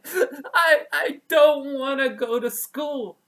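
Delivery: put-on high, loud wailing plea of a crying child. Little raccoon cries to his mother at the forest edge, loud high wailing. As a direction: wail it like a little raccoon who won't go to school.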